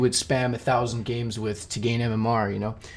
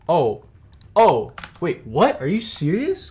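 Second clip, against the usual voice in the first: surprised; 4 semitones higher, 4 dB louder, slower than usual. Real, not acted. Stream fails, shocked reaction.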